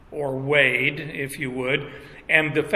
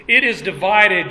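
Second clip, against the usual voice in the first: "It is divided" louder, with weight; emphatic; 3 semitones higher, 4 dB louder than usual. Retold or imitated. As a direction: drive home "It is divided" firmly. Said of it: "and again, this is emphatic".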